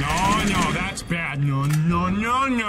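loud frantic no no no; shouting in panic at the monster; panicked yelling. Real, not acted. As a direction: yell at it to stop.

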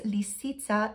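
lisica said as Slovenian lee-SEE-tsa; Slovenian word. Shown as a demonstration. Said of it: "in Slovenian".

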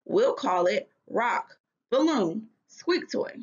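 lively storybook reading with voiced characters; story read aloud. Teacher reading a frog story to her class, animated. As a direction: read the chapter to the kids with expression.

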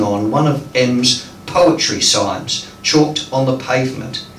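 measured phrases with pauses between; deliberate storytelling poetry delivery; poem reading. Acted. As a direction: read a dream poem aloud to an audience. Reads sonnet aloud.

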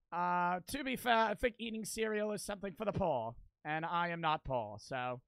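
snooty mock British accent; bad British accent. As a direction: play a condescending Brit, badly faked. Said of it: "That was a bad British accent".

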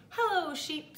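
high, cheery duck hello; Duck's greeting. A narrator's reading. Duck greeting Cow from his bike, high and chirpy. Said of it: "said Duck".

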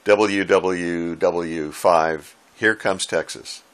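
very slow, stretched out call sign; drawn-out call sign. Retold or imitated. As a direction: drag out each letter like a slow radio call. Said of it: "giving his call sign something like".

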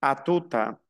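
"A tout à" as "a tuta"; French "A tout à" joined into one piece; linked words. Shown as a demonstration. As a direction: run "tout à" together with a linking T. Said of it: "Aquí se une".

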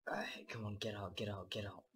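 hushed whisper, tense. Real, not acted. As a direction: whisper it, sneaking away. Sneaking out with the gold.

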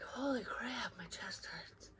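hushed unvoiced whisper, as if the pain steals the breath. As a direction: whisper it in sudden alarm. Retelling sudden chest pain.

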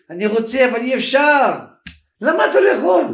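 high, insistent retold argument; heated protest. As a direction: argue it out with pitch climbing. Acted back-and-forth over the car. (ויכוח נרגש בקול גבוה)

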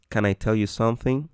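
light can, easy rising question; unstressed can. Shown as a demonstration. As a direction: glide over can to something. (can sin énfasis)

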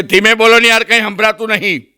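retold shout to keep it down; calling out. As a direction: imitate an irritated uncle calling out in a cinema. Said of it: "એટલે એમણે બૂમ પાડી કે".

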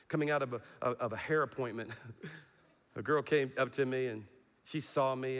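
usual speaking voice

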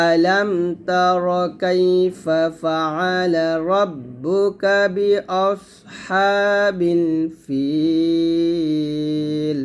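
slow, melodic Quran chant; slow recitation. Shown as a demonstration. Teacher recites the whole verse slowly. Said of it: "আবার বলেন".

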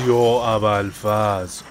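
slow, drawn-out cry of alarm; alarmed gasp. Real, not acted. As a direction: stretch it out as the plane drops. Plane drops into air pocket.

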